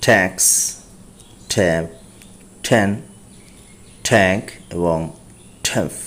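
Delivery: "ট্যাফ" with a flat open a sound, like "tough" said as "taff"; English words read aloud for practice. Shown as a demonstration. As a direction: drill word after word with a short pause between. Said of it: "এভাবে তিন শব্দ".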